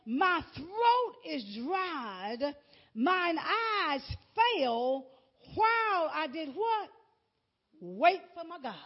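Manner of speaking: slow, drawn-out psalm reading; scripture reading. Acted. Preacher reading David's plea to God, slow and drawn out. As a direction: stretch each phrase, pausing between. Reads the psalm aloud in sermon.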